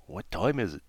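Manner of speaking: sleepy whispered question. Acted. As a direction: whisper it, half asleep. Sleepy turtle at midnight.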